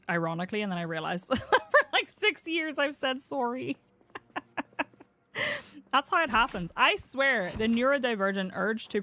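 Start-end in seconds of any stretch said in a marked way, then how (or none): 3.2-3.8 "sorry" with a round OR vowel, SORE-ee; Canadian "sorry". Shown as a demonstration. Texan confessing a borrowed habit, "sorry" said Canadian as SORE-ee. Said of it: "saying sorry like a Canadian does".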